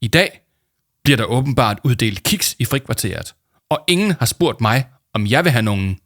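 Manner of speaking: high, loud solemn voice; hammed-up solemn announcement; grave Paul. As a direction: deliver bad news with mock gravity. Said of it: "sagde Paul med dyb stemme".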